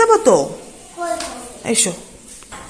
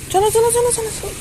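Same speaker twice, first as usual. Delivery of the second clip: 1 sing-song coaxing; 8 semitones higher than usual. Real, not acted. Coaxing child to come eat.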